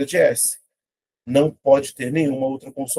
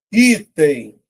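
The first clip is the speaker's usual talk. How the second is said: ITEM loud, split into i-tem; syllable by syllable; 3 semitones higher, 6 dB louder than usual. Shown as a demonstration. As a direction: call out ITEM slowly in two syllables. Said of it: "vou separar".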